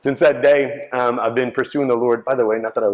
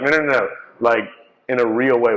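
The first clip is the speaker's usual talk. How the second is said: insistent; 4 semitones higher, 5 dB louder than usual. Retold or imitated. Recruiters insisting on the point.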